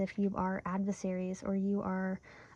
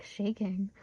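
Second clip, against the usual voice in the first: fighting back real sobs; choked up. Real, not acted. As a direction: voice trembling on the edge of tears. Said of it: "really about to sob".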